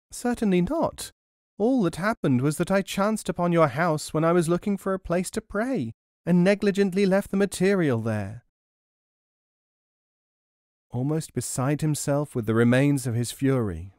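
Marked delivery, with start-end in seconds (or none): 0.1-8.5 much higher, sugary feigned innocence; sly old hag. A narrator's reading. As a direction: lie sweetly as the crafty crone. Hag answers the merchant.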